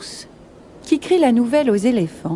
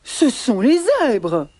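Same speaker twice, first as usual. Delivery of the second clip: slow, emphatic accusation; protesting giraffes; 3 semitones higher than usual. Acted. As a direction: pass the blame slowly, as a giraffe. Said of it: "protestent les girafes".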